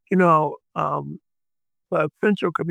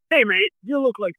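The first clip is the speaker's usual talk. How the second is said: put-on a half-hearted English accent, a bit higher; attempted English accent; 7 semitones higher than usual. Retelling a famous singer greeting him, in a weak English accent. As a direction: try the singer's English accent and give up. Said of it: "I can't do an English accent".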